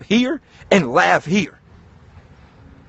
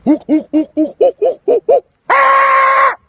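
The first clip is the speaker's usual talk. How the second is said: shrieking hook hook, much higher and louder; yelling hook; 8 dB louder, slower than usual. Shown as a demonstration. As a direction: let it all out screaming in the street. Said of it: "And go".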